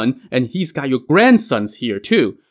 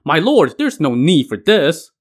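higher and louder, urgent; shouted plea; 5 semitones higher, 4 dB louder than usual. Acted. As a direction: call out to stop him, mildly raised.

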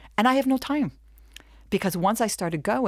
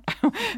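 a quick high burst of laughter. Real, not acted. Laughing at her own boast to the audience, high. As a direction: let out a high laugh at yourself.

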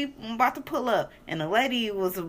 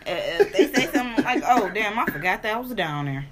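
laughing; 4 dB louder than usual. Real, not acted. Laughing while suggesting what to say.

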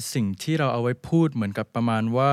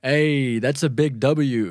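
slow model read; much slower than usual. Shown as a demonstration. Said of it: "พูดตามกันอีกรอบหนึ่งนะครับ".

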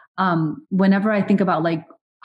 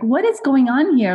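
exasperated disbelief; 6 semitones higher than usual. Retold or imitated. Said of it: "I'm like".

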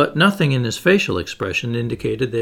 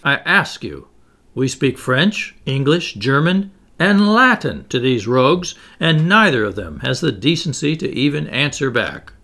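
indignant rant. Acted. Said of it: "exploding for the twentieth time".

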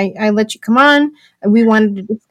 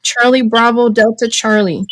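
usual speaking voice

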